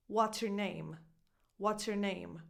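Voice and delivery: "your" shrunk to a quick "yer"; reduced your. Shown as a demonstration. English coach giving an easy example, reduced your. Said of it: "I'm not really saying your".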